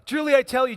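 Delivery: insist, raising pitch and volume on "Truly"; firm insistence. Shown as a demonstration. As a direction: talk over an interrupter. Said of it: "Peter's trying to get a word in".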